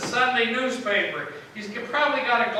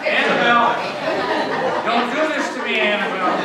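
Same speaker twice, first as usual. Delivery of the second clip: louder call of a name; 2 semitones higher, 4 dB louder than usual. Real, not acted. Preacher calling out to a child interrupting, louder. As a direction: call her name across the room.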